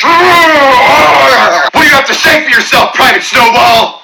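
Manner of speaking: slow barking drill instructor; drill sergeant. Retold or imitated. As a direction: bark it at the private slowly. Mock drill instructor addressing airman.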